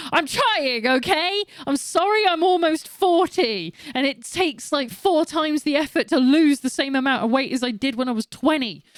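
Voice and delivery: high, exasperated plea; defensive protest. Retold or imitated. Almost-forty woman answering weight criticism, defensive and exasperated. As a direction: plead your case, half-laughing and indignant.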